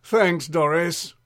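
slow, mildly exasperated thanks; a touch of weary annoyance, stretched out. Acted. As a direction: draw the thanks out with strained patience. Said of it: "little exasperated, Drip said".

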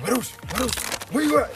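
calling his name through the house; parents calling out. Retold or imitated. Parents searching the house, calling out for their son.

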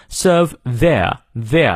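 "their" ending in a vowel, no R; British silent R. Shown as a demonstration. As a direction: drop the R in "serve" and "their". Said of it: "R也不念". (英式"their"，R不发音)

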